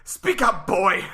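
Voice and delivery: loud, mocking taunt; pretending not to hear. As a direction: call down to him loudly. Taunting from above.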